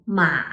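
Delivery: "ma" dipping low, then rising; low dip and lift on "ma"; third tone. Shown as a demonstration. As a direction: trace a U shape on "ma". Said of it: "starts low, dips, then rises".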